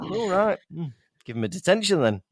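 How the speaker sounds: acting like a told-off teenager; a touch of offhand indifference; blasé. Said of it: "blasé".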